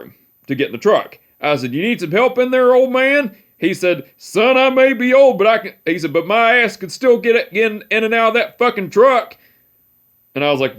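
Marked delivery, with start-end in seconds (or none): 1.7-3.4 higher, playful mock-helpful jab; teasing. Grandson teasing his great-grandpa at the truck door, playful higher voice. 4.2-9.4 imitating great-grandpa. Great-grandpa retorting indignantly.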